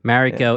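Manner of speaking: Mariko with an American "a" as in marry; butchered pronunciation. Real, not acted. Podcaster stumbling over the translator's name, Mariko mispronounced. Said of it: "I hate how I'm butchering saying Mariko".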